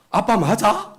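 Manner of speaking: 높고 크게 따지듯 묻는 딸 목소리; 아빠에게 대드는 딸을 흉내 내듯; 의심하는 딸 흉내. Retold or imitated. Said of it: "우리 딸이 그랬다니까". (딸처럼 톤을 확 올려 따져 묻기)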